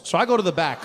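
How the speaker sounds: normal talking voice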